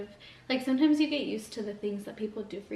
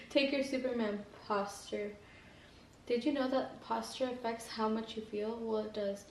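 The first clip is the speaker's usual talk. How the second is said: reading aloud. Acted. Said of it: "I kinda just started reading off".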